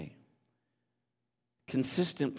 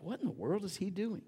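mock puzzled onlooker; 9 semitones higher, 5 dB quieter than usual. Onlookers voiced in story.

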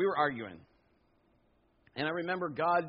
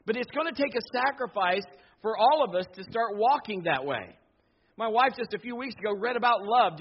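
louder, higher preaching push; full-force sermon delivery; 7 semitones higher, 6 dB louder than usual. Acted. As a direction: drive the point home to the congregation.

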